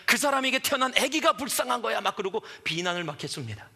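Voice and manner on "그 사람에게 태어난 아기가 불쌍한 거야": loud indignant scolding; scathing, accusing TV rant; condemning. Retold or imitated. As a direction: berate the mother like a TV host. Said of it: "비난을 하면서".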